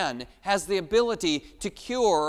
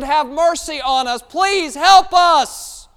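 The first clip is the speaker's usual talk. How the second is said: loud, high, slow pleading shout; desperate shout; 8 semitones higher, 11 dB louder, slower than usual. Acted. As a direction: beg with all your strength. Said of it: "he said".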